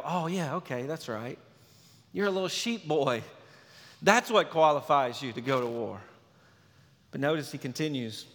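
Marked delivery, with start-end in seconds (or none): 0.0-6.0 sarcastic agreement. Retold or imitated. Mock agreement with the shepherd boy.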